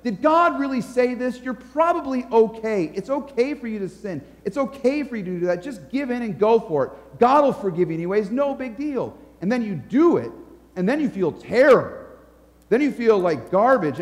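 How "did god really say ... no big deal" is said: lightly voiced tempter, pitched higher; a hint of the wheedling tempter; tempting devil. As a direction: coax them lightly as the devil would. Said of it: "He'll say something like".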